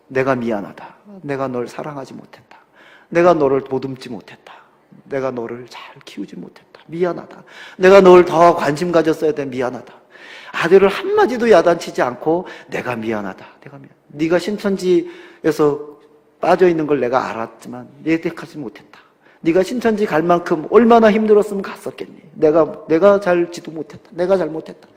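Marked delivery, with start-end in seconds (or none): 0.1-9.9 tearful apology. Retold or imitated. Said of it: "울면서 기도하면서 고백합니다". 12.7-24.9 tearful apology. Retold or imitated. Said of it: "잘못했다고 엉엉 웁니다".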